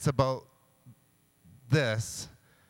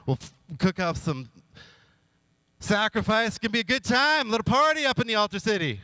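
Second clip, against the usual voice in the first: giddy party hype; 7 semitones higher, faster than usual. Retold or imitated. King excited for party.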